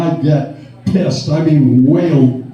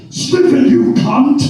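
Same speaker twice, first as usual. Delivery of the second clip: mock rock-singer shout; 10 semitones higher, 4 dB louder, slower than usual. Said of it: "and he goes".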